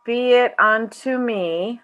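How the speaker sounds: overdone, wavering line reading; voice cracking. A narrator's reading. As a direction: draw it out until the voice nearly cracks. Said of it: "my voice cracked".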